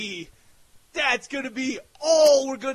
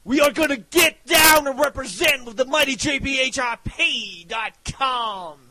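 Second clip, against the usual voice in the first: hype shout; 2 semitones higher than usual. Real, not acted.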